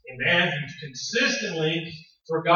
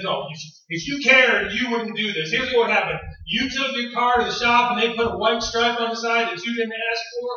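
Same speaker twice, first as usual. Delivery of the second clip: raised, pointed explanation; wife explaining his failure to husband, raised; lecturing wife; 6 semitones higher, 3 dB louder than usual. Retold or imitated. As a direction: spell it out to him, annoyed.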